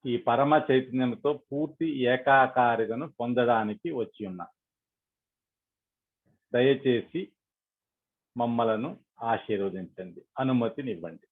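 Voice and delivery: measured prayer with long pauses between phrases; led prayer. Acted. Meditation leader addressing Sri Mataji for blessing, prayerful. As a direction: pray aloud, phrase by phrase.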